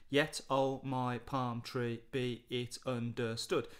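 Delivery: slow, measured reading of the verse; slow poem reading. Shown as a demonstration. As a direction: read each line slowly, counting the beat. Reads poem lines slowly.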